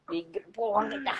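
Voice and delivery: whispering while hiding. Real, not acted. Hiding during a prank call.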